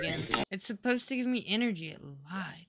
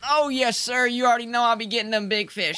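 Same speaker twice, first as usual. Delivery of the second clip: put-on country accent; 5 dB louder than usual. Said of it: "that horrid country accent".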